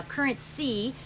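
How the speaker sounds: "current see" with both words distinct; split-word pronunciation. Shown as a demonstration. Speaker defining her wordplay, "current see" as two words. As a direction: say "current", then a clear separate "see". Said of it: "the ability to see in the current moment".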